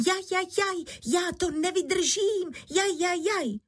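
high-pitched yelps of pain; crying out. Acted. Buried wife crying out as the candle burns her head, high yelps. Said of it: "že se dala do křiku".

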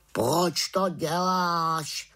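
put-on a puzzled old raven asking. Raven questions the witch. (havran se pomalu ptá)

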